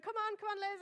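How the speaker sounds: mock cheering, pitched high; retold cheering. Siblings egging her on at the game, mock cheering. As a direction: cheer her on from behind the glass. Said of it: "they were just cheering encouragement".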